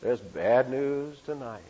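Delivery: put-on old-time radio newsman announcing good news; Gabriel Heater radio intonation. Preacher imitating a radio newsman to the congregation. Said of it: "Or he'd say".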